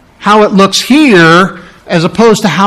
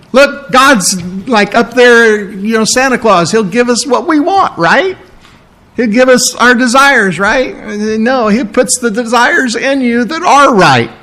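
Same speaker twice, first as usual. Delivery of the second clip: mock Santa theology; 6 semitones higher than usual. Mocking Santa Claus view of God.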